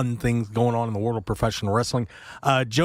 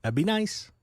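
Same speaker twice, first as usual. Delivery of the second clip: high-pitched, sarcastically cheery greeting; dripping sarcasm; 12 semitones higher than usual. Real, not acted. Radio host needling everyone to wake up, dripping sarcasm. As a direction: lay the sarcasm on thick, pitched way up. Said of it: "is the sarcasm in my voice kinda dripping".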